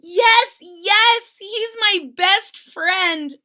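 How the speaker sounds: put-on very high, very loud overjoyed girl; joyful shout. Lisa finding her lost bear, shouting with joy. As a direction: cry out in joy, slowing on best friend. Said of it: "shouted Lisa".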